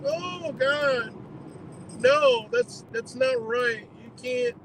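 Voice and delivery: mock a shocked do-gooder clutching their pearls; mock outraged objector. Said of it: "people that are like".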